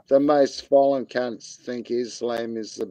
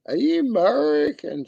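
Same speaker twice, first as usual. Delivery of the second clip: pitched way up, sing-song; high mock question; 11 semitones higher than usual. Teasing a chat viewer, asking again much higher. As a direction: squeak the repeat up high.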